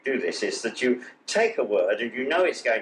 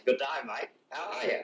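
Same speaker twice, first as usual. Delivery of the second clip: a cheery Aussie greeting, imitated with a light touch; a hint of an Australian accent in a friendly greeting; mock Australian accent. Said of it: "They say".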